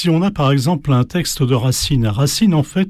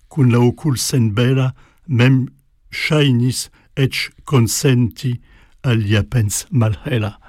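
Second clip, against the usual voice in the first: slow, measured recital of translated alexandrines; careful poetic recitation, deliberate pace; reciting verse in Esperanto. Shown as a demonstration. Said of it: "voilà ce que ça donne en espéranto".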